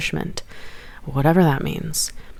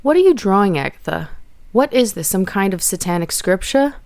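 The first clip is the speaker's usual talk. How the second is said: a louder Brooklyn mom, lightly voiced; Brooklyn accent; 3 semitones higher, 3 dB louder than usual. Mother grilling her daughter, light Brooklyn accent. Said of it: "Her Brooklyn accent was in full force".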